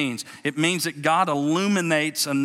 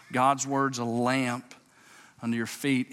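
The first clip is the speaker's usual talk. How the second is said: slow deliberate reading. Shown as a demonstration. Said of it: "watch this".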